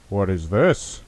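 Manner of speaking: mock-dramatic line with swooping pitch peaks; sarcastic. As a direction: play up fake astonishment, sarcastically. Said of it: "I say sarcastically".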